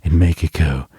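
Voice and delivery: slow, spooky horror-host voice. Shown as a demonstration. Host demonstrating a bell plug, slow horror voice. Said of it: "like, your biggest horror voice".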